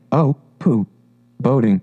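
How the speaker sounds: understated storybook disgust; mildly disgusted character voice; great disgust. A narrator's reading. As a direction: dismiss it with disdain. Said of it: "in great disgust".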